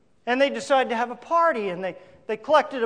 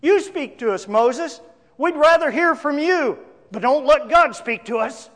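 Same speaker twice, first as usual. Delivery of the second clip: urgent crowd plea; 4 semitones higher, 4 dB louder than usual. Acted. Voices the frightened crowd pleading with Moses.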